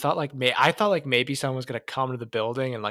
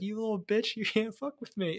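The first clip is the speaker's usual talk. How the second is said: villain taunt; 7 semitones higher, 3 dB quieter than usual. Retold or imitated. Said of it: "He's like".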